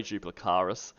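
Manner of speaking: Duplicaris ending in KAR-iss, softly; corrected pronunciation. Real, not acted. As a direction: say Duplicaris with 'ah', no extra 'ee'. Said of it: "I was corrected".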